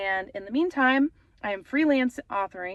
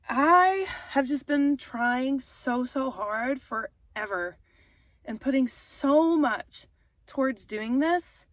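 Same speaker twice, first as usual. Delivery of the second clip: getting emotional. Real, not acted. Vlogger in her car telling viewers about her dream, tearful. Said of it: "I don't mean to get emotional".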